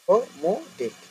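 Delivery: word split into separate syllables. Shown as a demonstration. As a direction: say "ও মো ডেট" with a gap after each syllable. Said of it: "syllable অনুযায়ী ভাগ করা".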